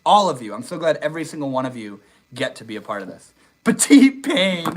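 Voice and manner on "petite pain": exaggerated French, slow and high; French accent. Streamer reading a viewer's nickname in a mock French accent. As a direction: savour the French name in mock French.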